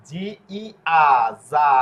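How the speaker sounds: জি, ই, আ spelled apart, then যা as "jaa" or "zaa"; soft G drill. Shown as a demonstration. Teacher showing the soft G, slow spelling demo ending যা. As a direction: space out the letters and draw out যা. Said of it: "জয়ের উচ্চারণ করবে".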